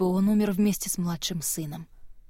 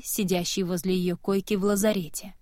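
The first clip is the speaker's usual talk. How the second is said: plain reading voice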